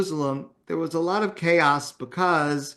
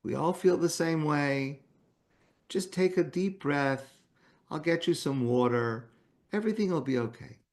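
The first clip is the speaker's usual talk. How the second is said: softer and soothing, a gentle reassurance; 5 dB quieter than usual. Retold or imitated. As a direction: ease a panicked old woman, softly. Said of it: "said in a very soft voice".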